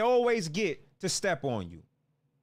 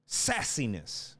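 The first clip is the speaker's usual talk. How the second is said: drawn-out mocking; 8 semitones lower, slower than usual. Real, not acted. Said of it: "The attitude of these guys".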